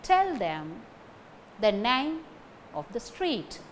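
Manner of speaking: "Tell", "name" and "street" stressed, broken into three phrases. Shown as a demonstration. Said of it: "Only these three words carry stress".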